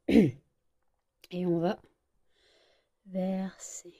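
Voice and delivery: slow whisper while pouring; hushed focus. Real, not acted. Baker pouring juice onto the cake, slow careful whisper. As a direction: whisper it as you pour carefully.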